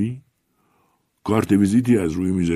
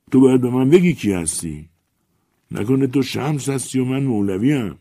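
higher, louder aggrieved rant; jealous old writer; 4 semitones higher, 3 dB louder than usual. Acted. Old writer rants jealously at the famous newcomer, high and loud. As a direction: pour out forty years of being ignored.

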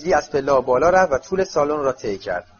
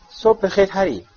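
mild, higher-pitched yawny greeting; yawning; 5 semitones higher than usual. A narrator's reading. Tonks greets Harry at breakfast, yawning. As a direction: say it through a slight yawn.

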